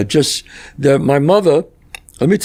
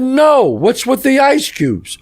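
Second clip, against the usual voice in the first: put-on kid asking; 10 semitones higher, much slower than usual. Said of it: "I said".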